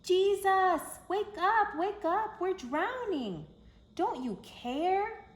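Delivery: terrified yell over the storm; panicked shout. Acted. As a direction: scream to wake him in a sinking boat. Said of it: "disciples cry out in storm".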